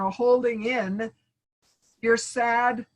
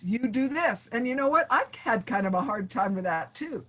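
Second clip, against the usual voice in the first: gentle approach. Pretend. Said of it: "How about if you said".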